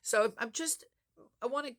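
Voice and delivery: high, earnest daughter's reassurance; imitating daughter. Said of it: "She's like".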